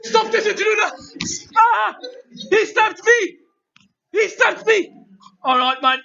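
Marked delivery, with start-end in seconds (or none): 0.0-4.9 high, laughing fake panic; laughing mock alarm. Host laughing through a pretend stabbing by the intruder. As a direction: cry for help while cracking up.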